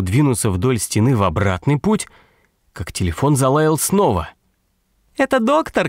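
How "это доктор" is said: high, thin woman's cry; shrill-pitched female call down the phone; тоненький женский крик. A narrator's reading. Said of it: "крикнул тоненький женский голос". (тонкий женский крик в трубку)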